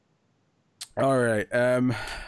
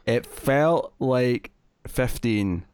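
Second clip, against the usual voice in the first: slow teasing drawl; much slower than usual. Real, not acted. Teasing reply about long review.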